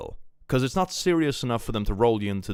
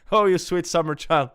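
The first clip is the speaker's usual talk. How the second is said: high, loud, through laughter; laughing pityingly; 8 semitones higher, 5 dB louder than usual. Real, not acted. Streamer laughs about expecting a tax return, mock pitying. Laughs at own naive past hopes.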